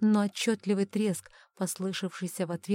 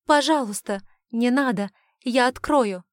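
higher, louder, panicked begging; desperate plea; 5 semitones higher, 9 dB louder than usual. A narrator's reading. Darren pleads to save his stepmother, high and desperate. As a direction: plead fast before it's too late.

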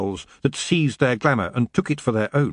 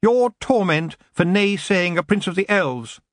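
higher-pitched, haughty elf; lightly voiced nasty elf lord; 8 semitones higher than usual. Elf prince threatens one who naysays him, haughty. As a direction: play a spiteful elf noble.

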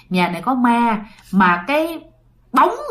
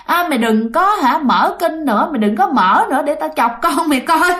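mocking ghost woman; 5 semitones higher than usual. Ghost taunting the frightened mother, hammed-up higher sneer. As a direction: retell the ghost's sneering threat a bit higher. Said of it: "bà nói".

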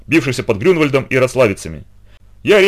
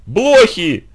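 high, loud panicked cry; desperate wail; 8 semitones higher, 3 dB louder than usual. A narrator's reading. Aunt discovering the fleas, wailing in despair. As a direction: wail the word in horror. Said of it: "в отчаянии завопила тётя".

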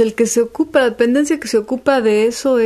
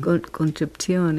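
slow, softer guess at Italian pronunciation; Italian accent; 3 semitones lower, 5 dB quieter than usual. Pretend. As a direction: try it slowly in Italian, CH for the C. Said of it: "¿Cómo se dirá en italiano". (intento pausado de acento italiano)

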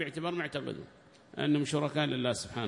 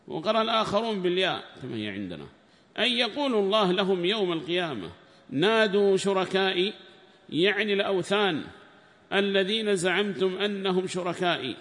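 raised, higher recitation voice for the quoted book; formal text reading; 6 semitones higher, 7 dB louder than usual. Acted. Sheikh reading the tafsir book aloud to students, raised formal reading voice. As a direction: declaim the commentary text like reading to a class.

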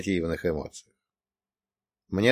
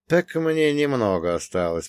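прохрипел; 4 semitones higher than usual. Acted. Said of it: "прохрипел я".

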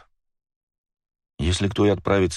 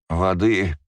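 weak moan of someone just coming to; 3 semitones higher than usual. Acted. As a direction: moan it like barely conscious. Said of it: "— простонал".

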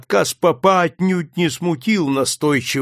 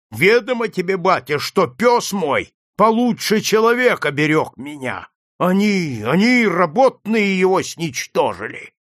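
higher and louder furious outcry; shouting; 5 semitones higher, 4 dB louder than usual. Acted. Furious shout. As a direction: master shouts at the priest about his dog, loud and higher. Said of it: "закричал заводчик".

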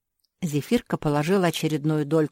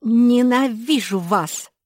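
high, loud, slow angry shout; 7 semitones higher, 8 dB louder, slower than usual. A narrator's reading. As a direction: hurl it at them in a tantrum. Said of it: "закричала Нинон".

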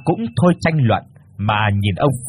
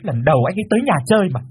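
high sharp daughter's protest; snapping; 8 semitones higher, faster than usual. Acted. Daughter snaps at mother to stop, high sharp protest. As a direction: cut mom off sharply. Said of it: "gắt lên".

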